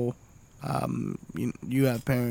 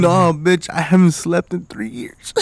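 mock retort; 3 semitones higher, 6 dB louder than usual. Exhausted parent retort.

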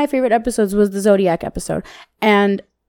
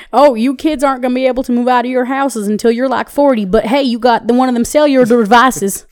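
put-on old-timer country accent; older people's accent; 2 semitones higher, 4 dB louder than usual. Old-timer telling kids about moving out, folksy accent. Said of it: "I hate that fucking accent".

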